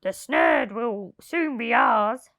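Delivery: lightly voiced hopeful crook; eager thief. Len tunnelling into the heap, lightly voiced. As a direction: press on eagerly. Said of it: "said Len".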